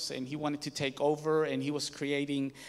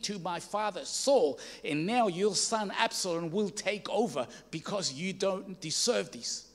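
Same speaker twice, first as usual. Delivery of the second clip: raised, louder voice hurling insults at the king; retold angry shouting; 4 semitones higher, 4 dB louder than usual. Shimei curses the fleeing King David: louder, raised, insulting. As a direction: play Shimei cursing David with a mock yell. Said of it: "he starts shouting at him".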